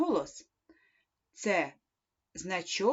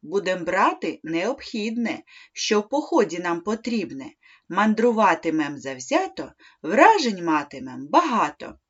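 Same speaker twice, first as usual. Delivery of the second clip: poem recital; 4 dB louder than usual. Shown as a demonstration. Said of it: "Прочитай вірш".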